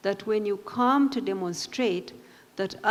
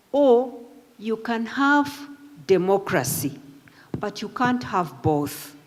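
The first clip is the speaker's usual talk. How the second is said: slow, weighty, every word placed; slow deliberate quote. Retold or imitated. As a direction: lay the quote down slowly for weight. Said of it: "and listen to it carefully".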